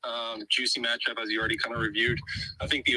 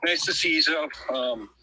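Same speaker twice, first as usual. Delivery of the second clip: breathless sports talk; winded, talking between breaths. Real, not acted. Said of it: "Sorry for my out-of-breathness".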